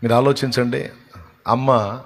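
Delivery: normal talking voice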